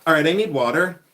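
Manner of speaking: loud, lightly yelled statement; yelling. Real, not acted. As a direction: announce it loudly to the room. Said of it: "I'm definitely yelling".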